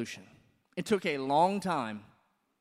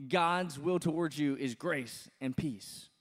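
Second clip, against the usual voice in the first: confident; slower than usual. Retold or imitated. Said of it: "he can say with just confidence".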